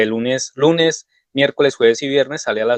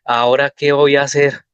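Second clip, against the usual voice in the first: flustered panic; 2 semitones higher, 3 dB louder than usual. Retold or imitated.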